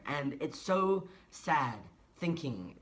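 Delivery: slow, choked-up and tearful; fighting back tears as she speaks; getting emotional. Real, not acted. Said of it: "I'm getting a little bit emotional".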